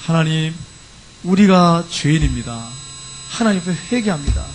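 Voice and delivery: subdued, halting prayer of repentance; retold penitent confession. Israelites confessing sin before God, subdued retold repentance. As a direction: confess humbly, softening toward the end. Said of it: "자기 죄를 지금 회개하는".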